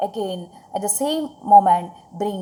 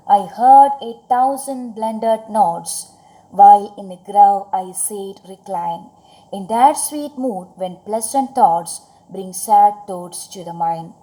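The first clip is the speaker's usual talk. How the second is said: poem recitation. Acted. Reciting the stanza.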